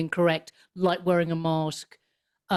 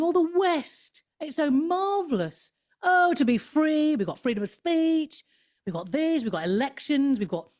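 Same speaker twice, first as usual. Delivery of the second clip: smug mockery; 7 semitones higher than usual. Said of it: "they were smugly going".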